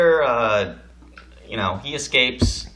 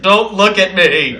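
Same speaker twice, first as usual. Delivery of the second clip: cat voice; 10 semitones higher, 13 dB louder, slower than usual. Retold or imitated. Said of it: "pawed his face like".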